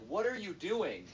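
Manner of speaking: high, drawn-out indignant whine; indignant protest. Retold or imitated. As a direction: act out an outraged kid, slowly. Kids protesting as iPad is taken.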